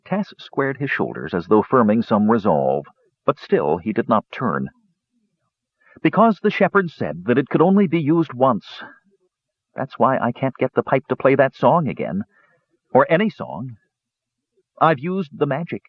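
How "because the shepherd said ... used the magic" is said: put-on lightly raised, earnest young kender. A narrator's reading. Tass explains the shepherd's rule to Tanis, earnest.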